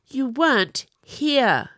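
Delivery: weren't drawn out high and loud, slow; insisting. A narrator's reading. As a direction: lean hard on weren't. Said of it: "she insisted".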